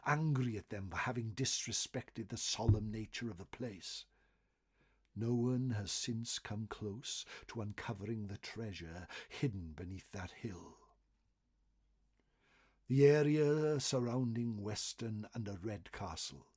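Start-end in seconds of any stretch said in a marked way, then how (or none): none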